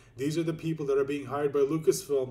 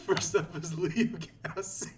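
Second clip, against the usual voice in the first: laughing; slower than usual. Real, not acted. Reading names while laughing.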